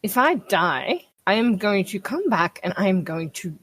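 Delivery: controlled, unhurried menace; measured threat. Acted. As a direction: lay down the threat word by word. Player's character threatens her brother.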